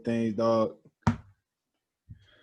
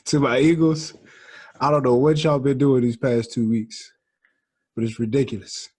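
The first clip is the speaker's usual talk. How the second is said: loud, exasperated fan's complaint; airing grievances; 7 dB louder than usual. Real, not acted. Fan scolding the Eagles after two losses, loud exasperation. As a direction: call out your team, louder. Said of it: "get some grievances out".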